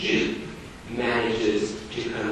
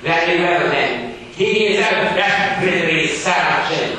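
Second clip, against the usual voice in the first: loud, high, stern schoolmaster; 6 semitones higher, 6 dB louder than usual. Acted. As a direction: bark it like a strict Victorian teacher. Gradgrind voiced in reading.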